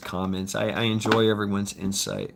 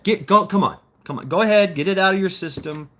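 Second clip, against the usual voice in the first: taunting dare; 6 semitones higher than usual. Retold or imitated. Taunting someone to hit him.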